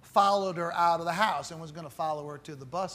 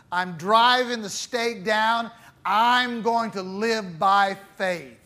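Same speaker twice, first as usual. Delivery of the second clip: determined declaration; 3 semitones higher, 5 dB louder, slower than usual. Pretend. Voicing a resolved believer.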